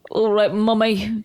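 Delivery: slow put-on mummy's boy; Max impression. Son obeying Mummy's order, slow mock-dutiful voice. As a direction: drag it out like an obedient son. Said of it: "He's like".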